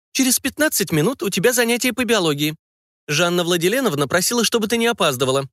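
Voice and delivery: firm, no-nonsense reminder; a teacher setting the schedule; stern reminder. Acted. Guardian sending the girl to her lesson, mildly stern. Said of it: "сказала она строгим голосом".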